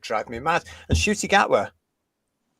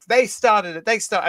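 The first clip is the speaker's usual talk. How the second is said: lightly voiced comic, higher and louder; Joan Rivers style jab; 7 semitones higher, 4 dB louder than usual. Imagining Joan Rivers mocking critics, lightly voiced, higher. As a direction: toss it off like a brash comedian. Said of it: "the first thing we said".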